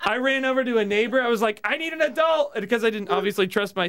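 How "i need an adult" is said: put-on high-pitched childlike plea; mock panic, pitched way up; retold panicked plea. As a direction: re-enact a kid begging for help. Retells panicked plea to neighbor.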